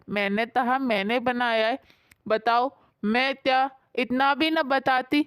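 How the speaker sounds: put-on lisping childlike wife. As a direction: lisp every k and s like a little child. Sheetal answers in lisping voice.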